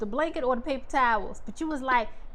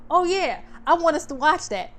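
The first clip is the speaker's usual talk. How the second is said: mock eager husband; 4 semitones higher than usual. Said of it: "You be like".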